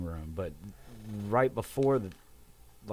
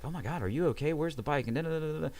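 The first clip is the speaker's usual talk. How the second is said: imitating mom's higher-pitched rambling; higher voice, trailing off into da-da-da; rambling worried mother; 6 semitones higher, faster than usual. Mom fusses over son after the crash, mock rambling. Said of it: "she's rambling on".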